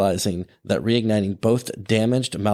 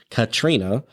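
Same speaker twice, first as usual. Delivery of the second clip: very slow; 2 semitones higher than usual. Real, not acted. Host getting the storm's name out, very slowly. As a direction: say "Katrina" slowly, each syllable carefully placed. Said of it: "I had to say that very slowly".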